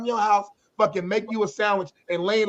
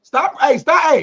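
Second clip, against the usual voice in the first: louder, cutting in; loud interruption; 5 semitones higher, 6 dB louder, slower than usual. Real, not acted. Stopping co-host's political rant, loud. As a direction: shut it down now.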